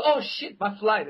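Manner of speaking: high startled gasp of alarm; panicked. Retold or imitated. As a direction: jolt awake in alarm. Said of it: "she goes".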